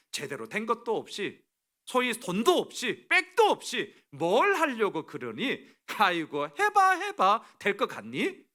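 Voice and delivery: hammed-up ridicule; mocking sarcasm. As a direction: pour out scorn, stretching the taunts. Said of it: "조롱과 비아냥이 막 엄청나게 쏟아집니다".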